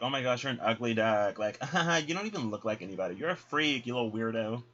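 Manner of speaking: sneering schoolyard taunt with a laugh; mocking taunt. The ducks jeering at the ugly duckling, mocking laughter. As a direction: jeer and laugh at him.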